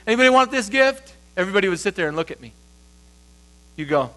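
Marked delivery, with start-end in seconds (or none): 0.1-1.1 offering a gift. Retold or imitated. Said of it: "if it's just a gift".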